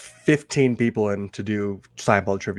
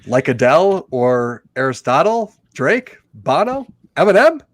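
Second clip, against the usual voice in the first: building excitement; 2 semitones higher, 5 dB louder than usual. Acted. Reading a quote with flourish.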